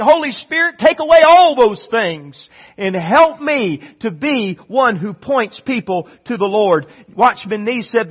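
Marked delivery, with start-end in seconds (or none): 0.0-6.9 fervent prayer. Acted. Preacher voicing an earnest prayer.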